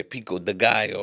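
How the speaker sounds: "Pico de gallo" with Spanish vowels and sounds; Spanish pronunciation. Shown as a demonstration. American speaker switching for one food name, Spanish "Pico de gallo". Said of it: "then they'll say".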